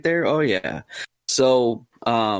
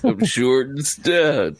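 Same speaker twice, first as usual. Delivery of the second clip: sleepy husky good morning; 2 semitones higher, much slower than usual. Shown as a demonstration. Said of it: "can you say".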